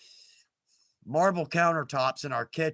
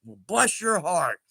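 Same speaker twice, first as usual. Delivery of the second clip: sarcastic blessing. Shown as a demonstration. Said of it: "Southern way of saying you moron".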